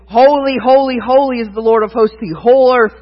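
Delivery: ringing proclamation; cried out. Acted. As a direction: angels calling to each other. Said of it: "they cry out".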